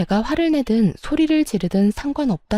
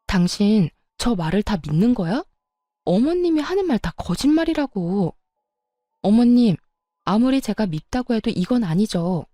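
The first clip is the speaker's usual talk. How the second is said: voice rising. Acted. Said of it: "저의 언성은 점점 높아졌고".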